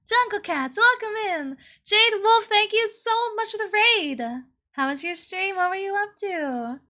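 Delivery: high, bubbly welcome; cute anime streamer. Real, not acted. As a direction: greet them in a squeaky cheerful voice. Welcoming raiders.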